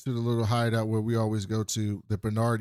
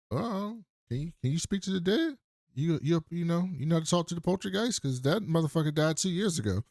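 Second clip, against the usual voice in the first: higher, mock incredulous sarcasm; mocking reply; 5 semitones higher than usual. Miner mocking the sheriff about the dead dad, sarcastic and higher. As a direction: sneer it back in a higher pitch.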